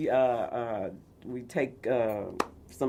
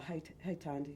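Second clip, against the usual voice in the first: put-on British accent; 2 semitones lower, 14 dB quieter than usual. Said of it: "he got that British".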